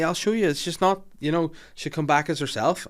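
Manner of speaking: earnest childlike insistence, imitated; innocent child. Lizzie insisting to horrified adults, all innocently. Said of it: "all innocently".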